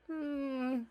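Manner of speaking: suspicious hmm. Acted. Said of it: "squints her big old eyes and is like".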